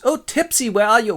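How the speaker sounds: high, swooping lovelorn call; hammy Pyramus. Acted. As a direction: call like an overacting stage lover. Pyramus calls again.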